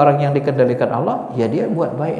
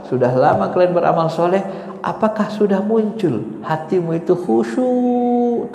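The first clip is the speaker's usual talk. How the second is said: slightly raised, insistent appeal; God addressing believers; 5 semitones higher than usual. Acted. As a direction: lightly voice a divine reproach to the faithful. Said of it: "Kan itu bahasanya". (seruan Tuhan menegur orang beriman)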